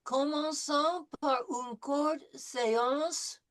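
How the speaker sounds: slow, careful French; French model reading. Shown as a demonstration. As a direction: read it slowly for repeating. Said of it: "Répétez après moi".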